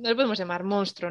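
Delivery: words around a sip; talking between sips of a drink; while sipping a drink. Real, not acted. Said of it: "Perdón que estoy bebiendo un poquito de".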